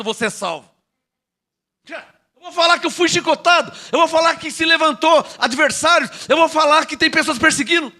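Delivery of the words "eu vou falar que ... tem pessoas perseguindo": higher-pitched pulpit lament in imitation; mock complaint. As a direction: imitate someone insistently airing their grievances. Acting out preacher listing own woes.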